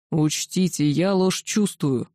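slow low dragon growl. A narrator's reading. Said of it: "прорычал бронзовый дракон".

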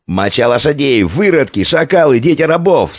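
high, loud escalating abuse; hurled insults. A narrator's reading. Warriors trading abuse, loud furious shouting. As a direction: hurl the insults. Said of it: "смешивались разноязычные голоса".

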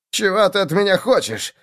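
high, strained, voiced whisper; frightened stage whisper. A narrator's reading. Agitator to his captor in the shadows, anxious whisper. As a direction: whisper it high, like a cornered man. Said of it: "прошептал агитатор".

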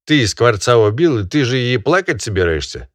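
loud, high lecturing master; scolding barin. Acted. Barin scolding the peasant over the dead bird, loud and high. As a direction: berate him like a pompous landowner.

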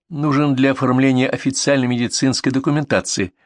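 mildly mocking officialese. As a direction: recite the official reason with a touch of mockery. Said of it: "насмешливо сказала Рита".

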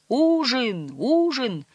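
high, drawn-out meal call. A narrator's reading. Cook calling crew to supper, high calling out. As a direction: sing out a summons from afar.

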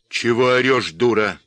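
loud, snapping rebuke; snapping angrily. A narrator's reading. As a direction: bark at her to shut up. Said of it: "спросил он".

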